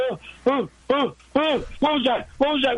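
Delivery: high jittery mock fright; imitating panic. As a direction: play Howard freaking out. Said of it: "And he was like".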